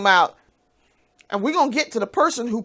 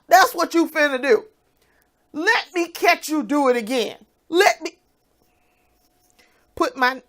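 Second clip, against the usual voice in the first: angry threat; 6 semitones higher, 3 dB louder than usual. Real, not acted. Threatening ex directly.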